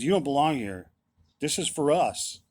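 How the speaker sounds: pissed off. Retold or imitated. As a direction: snap it at them like the pastor did. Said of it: "he was pissed off".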